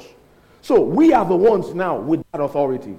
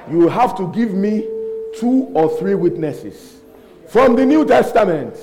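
loud last phrase, pitched high; retold firm demand; 3 semitones higher, 4 dB louder than usual. Preacher retelling the demand for witnesses, mock insistence. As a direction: build to an emphatic, raised demand.

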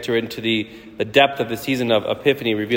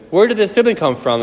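put-on child voice; 7 semitones higher, 4 dB louder than usual. Child asking mommy.

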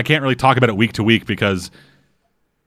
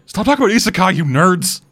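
mock grumpy dog, higher; voicing the dog; 7 semitones higher than usual. Host voices the dog scolding nerds, mock grumpy and higher. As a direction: scold them as the fed-up dog.

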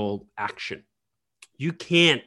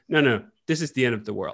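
laughing alarm; faster than usual. Retold or imitated.

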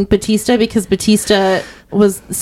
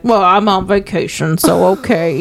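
easy, amused, lightly Southern; a hint of Southern detective shrugging it off. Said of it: "And he's like".

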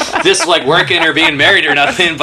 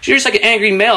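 mock friend repeated; 8 semitones higher, faster than usual. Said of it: "her friend is there like".

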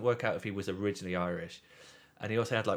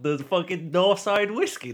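mock-incredulous guide, slow and louder; scoffing disbelief; 9 semitones higher, 6 dB louder, slower than usual. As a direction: scoff at the silly answer, higher.

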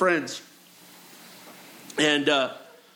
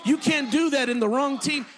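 preaching shout; 4 semitones higher than usual. Acted. Preacher builds to climax.

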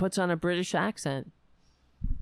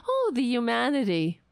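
mock horror; 5 semitones higher than usual. Commentator mocking outrage over restaurant protests, mock horror. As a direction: play up the fake dismay.

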